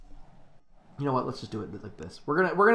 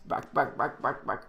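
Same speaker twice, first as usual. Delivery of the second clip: softer whispered home run call; quiet announcer call; 4 dB quieter than usual. Acted. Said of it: "My apologies".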